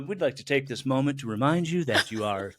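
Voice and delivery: lightly voiced public service announcement; measured mock-official reminder from the body; public service announcer. Body to its aging owner, lightly voiced announcer. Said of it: "This is a public service announcement".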